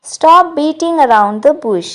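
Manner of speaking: slow, clear English model line; slow model sentence. Shown as a demonstration. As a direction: spell it out gently for learners. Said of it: "ये sentence बिल्कुल कह सकते हैं". (धीरे और साफ़ अंग्रेज़ी वाक्य)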